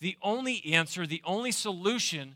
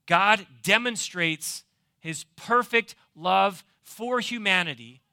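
preaching. Real, not acted. Preaching to congregation.

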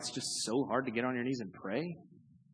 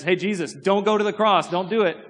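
pleading Peter; 6 semitones higher, 6 dB louder than usual. Acted. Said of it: "when Peter says".

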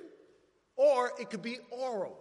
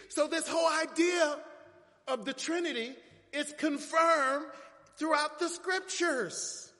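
higher-pitched preaching proclamation; emphatic preaching; 6 semitones higher than usual. Real, not acted. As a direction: drive the point home to the congregation.

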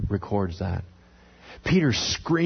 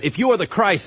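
acted demand; 8 semitones higher, 4 dB louder than usual. Council interrogates Jesus, acted out.

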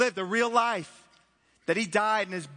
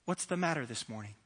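hushed question; 8 semitones lower, 7 dB quieter than usual. Acted. Preacher turns question to congregation.

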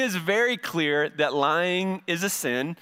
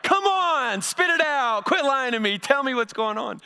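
higher, pushy demand to spit it out; impatient parent; 6 semitones higher than usual. Retold or imitated. Parent pressing a lying teen to talk, impatient and raised. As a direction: press the kid hard for the truth. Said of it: "and you're like".

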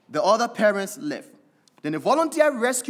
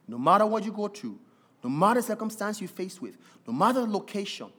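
quick, urgent repeated refrain; fast preaching build; faster than usual. Acted. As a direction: build the list faster each time.

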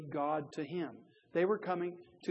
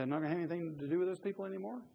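mock whiny quitter; much faster than usual. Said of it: "are you gonna cry and leave".

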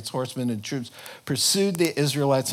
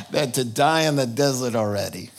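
put-on Yiddish accent; 2 semitones lower than usual. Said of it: "I sounded so much like my dad".

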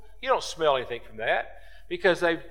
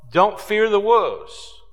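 loud high slow command; 6 semitones higher, 6 dB louder, slower than usual. Acted. Preacher telling the church not to fear wolves, loud and slow. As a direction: raise it and slow down on don't fear.

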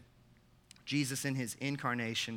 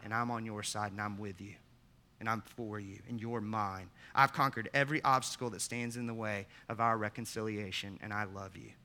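tender. Acted. Softens after climax.

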